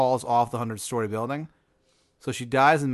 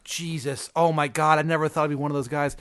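mild mock panic, picking up speed; freaking out; 4 semitones higher than usual. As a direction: play a flustered man freaking out. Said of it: "he freaks out".

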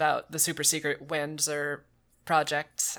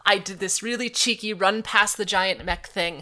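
louder, indignant cursing at a game; exasperated rant; 3 semitones higher, 6 dB louder than usual. Real, not acted. Player berating game over blocked bridge, exasperated rant. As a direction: rail at it like you've been cheated.

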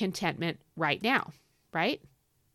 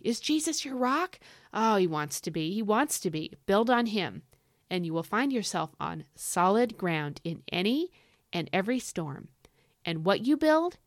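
fired up. Real, not acted. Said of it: "I'm getting excited".

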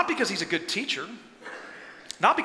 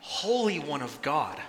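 slow low demon voice; 6 semitones lower, 6 dB quieter, slower than usual. Acted. Demon naming Jesus, slow and low. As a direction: lower and slow, a hint of a demon. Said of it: "He says".

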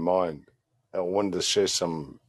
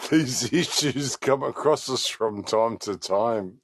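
slower, weighty proclamation; 5 semitones higher, slower than usual. Acted. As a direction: declaim it like ancient wisdom. Repeating the wise line louder.

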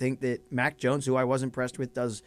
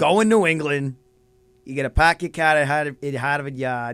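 a hammed-up Boston accent, loud; mock Boston accent; 6 dB louder than usual. Friend teasing co-host, hamming a bad Boston accent. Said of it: "You can't do the accent".

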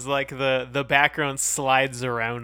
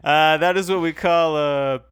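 mock Geordie accent; 2 semitones higher, 7 dB louder than usual. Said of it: "There we go".

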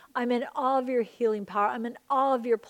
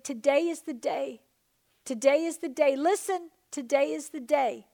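rising proclamation; 3 semitones higher than usual. Acted. Pastor voicing the Father's promise, building excitement. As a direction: lift it, announce it with joy.

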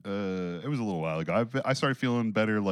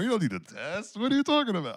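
higher, hammed-up scoff at testing; mock scoffing; 10 semitones higher than usual. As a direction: pretend to mock the idea, then drop it. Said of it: "I'm just kidding".

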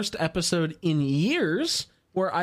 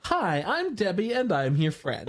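doll voice quote; 5 semitones higher than usual. Retold or imitated. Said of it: "dolls that say".

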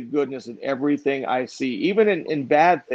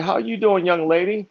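cheerful greeting; 5 semitones higher than usual. Retold or imitated. Friendly greeting to store clerk.

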